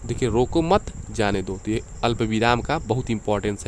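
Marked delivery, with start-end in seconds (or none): 0.3-1.6 रोको मत joined, clear break, then जाने दो; pause after मत. Shown as a demonstration. Teacher summing up the let-go meaning, pause after मत. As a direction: break only before जाने दो. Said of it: "मतलब इसमें क्या रोको मत".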